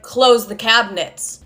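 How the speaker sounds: slow, restrained command in dad's role; retold stern order. Father's first order, retold.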